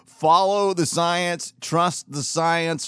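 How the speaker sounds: sarcastic. Pretend. Mocking the slogan.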